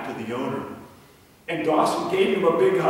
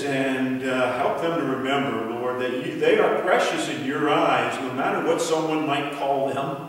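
prayer. Acted. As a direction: pray over the kids. Closing prayer with children.

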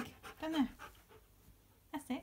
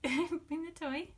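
slow drawn-out command; 5 semitones higher, 4 dB louder, slower than usual. Real, not acted. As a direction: stretch out "Bring the toy" slowly, leaning on "bring". Coaxing dog to fetch.

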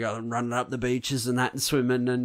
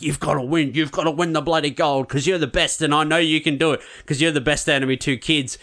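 raised, pushing father's voice, higher and louder; pushy father; 6 semitones higher, 4 dB louder than usual. Retold or imitated. Retelling the film, a pushy dad drilling his eldest son to win. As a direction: lean on him like a dad who won't hear no.

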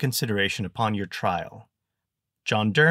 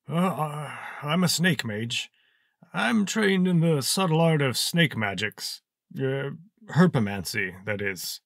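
put-on higher, slow, halting old wizard; hesitant old mage; 6 semitones higher than usual. Old mage explains snake magic to Zek, higher, slow and halting. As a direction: stammer it out like a doddering mage.

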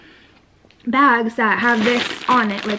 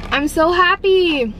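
happy; 6 semitones higher, 3 dB louder, slower than usual. Real, not acted. First sip of her drink.

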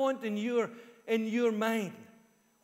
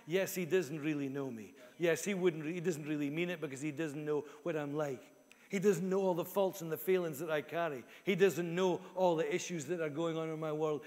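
low, subdued self-doubt; lightly voiced inner critic, pitched down; 5 semitones lower than usual. Inner voice discounts praise of the preacher, low and self-doubting. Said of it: "We hear what we perceive is being said".

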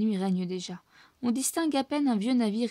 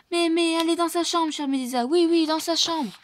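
stammering; 7 semitones higher, 5 dB louder than usual. A narrator's reading. Snoop stammers in fear.

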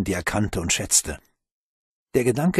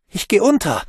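high, loud frightened whimper; 10 semitones higher, 5 dB louder than usual. Acted. The sinking boy whimpers to Bruno, terrified. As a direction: whimper it in terror. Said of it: "wimmerte der Junge".

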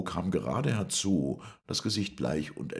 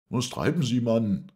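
raised voice, high and loud; called out; 9 semitones higher, 7 dB louder than usual. A narrator's reading. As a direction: shout across to the man in the water. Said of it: "rief Montgomery". (laut gerufen)

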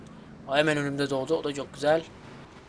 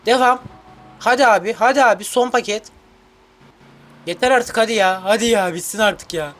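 impatient urging; 3 semitones higher, 3 dB louder than usual. Real, not acted. Impatient urging near the end.

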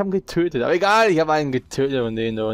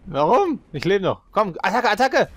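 excited; 6 semitones higher than usual. Real, not acted. Rallying teammate in firefight.

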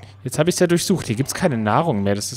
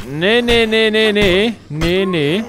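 rapid, higher, louder panicked nos; 7 semitones higher, 5 dB louder, slower than usual. Real, not acted. Player panicking as zombies close in, rising nos. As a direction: fend it off in a panic.

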